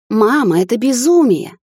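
a daughter protesting to her mother; breathless exclamation. A narrator's reading. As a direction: blurt it out in shock, choking on breath. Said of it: "воскликнула я, захлёбываясь воздухом".

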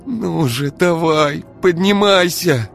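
high, loud, straining plea through gritted teeth; urging an unconscious man to get up, through gritted teeth. Acted. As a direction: grind it out, willing him up. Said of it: "скрипела зубами девушка".

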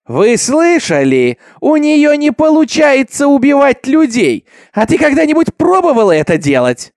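loud, high, drawn-out cry to the crowd; jeering shout. A narrator's reading. Accuser mocks the girl before the mob, shouting high. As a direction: crow it slowly for everyone to hear.

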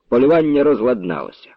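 plain reading voice

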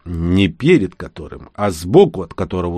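«перед» выделено, медленно и с падением; поправляет, подчёркивая «перед»; уточняя с нажимом. Acted. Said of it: "уточнил Макс". (медленно, с ударением на «перед»)

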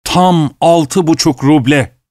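slow, mournful stating of the price; sad voice. Acted. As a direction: drag it out sadly. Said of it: "acıklı bir sesle".

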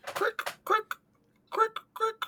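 high squeaky cricket chirps. Pretend. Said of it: "that's me trying to sound like a cricket".

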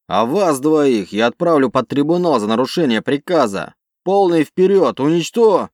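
high loud enraged yell; furious shouting. Acted. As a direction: scream the orders in rage. Commander threatens tribunal, orders attack.

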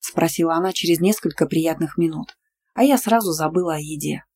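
plain reading voice

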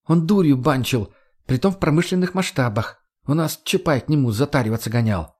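a hint of a tough girl; Margo, explaining. Narrator voices Margo.

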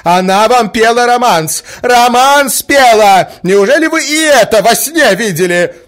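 high, loud, incredulous outburst; furious mother berating the prince; exasperated shout. A narrator's reading. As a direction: hurl it at him in disbelief. Marya keeps shouting at prince.

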